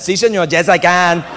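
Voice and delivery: lightly hammed-up Latino accent; poor imitation of a Latino accent; bad Latino accent. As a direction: answer in a badly faked Latino accent. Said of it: "doing my Latino accent".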